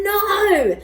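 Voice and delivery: high, loud bark of a word. A narrator's reading. Bob the dog barks at the pelican. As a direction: snap it out like a dog. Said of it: "barked Bob".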